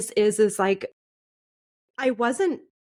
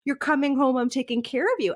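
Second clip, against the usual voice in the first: mom voiced higher, urgent and alarmed; 4 semitones higher than usual. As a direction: play the shocked mother taking charge. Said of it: "they were so alarmed".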